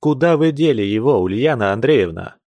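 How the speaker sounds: sharp. Acted. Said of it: "сказал он резко".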